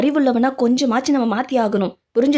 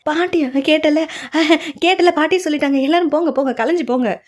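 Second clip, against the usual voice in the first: higher granny voice shooing people off; bossy old grandmother; 6 semitones higher than usual. Acted. Grandmother tells everyone to break up and go, high granny voice. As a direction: shoo them all away like a stubborn old lady.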